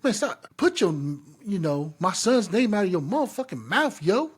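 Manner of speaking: imitating a fed-up dad telling him to back off; angry warning. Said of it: "I'll be like".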